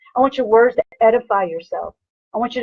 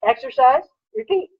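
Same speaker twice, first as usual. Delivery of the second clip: excited coaching cry; 10 semitones higher than usual. Real, not acted. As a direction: sing out the formula like a pumped-up coach. Coach hammering home the formula.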